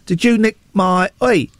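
a mock Southern English accent, half-done; a light Southern English accent, slightly high; imitating Southern English accent. Colin Farrell playing a diver in a cave rescue film, mocked in a Southern English accent. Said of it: "he does, like, a Southern English accent".

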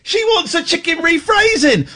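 high, laughing exclamation. Real, not acted. Laughing at her own joke.

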